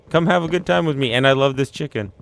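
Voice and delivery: sing-song friendly invitation; jolly Yakuza guy. Retold or imitated. Yakuza guy inviting everyone to chicken, jolly. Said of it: "Yakuza guy's just like".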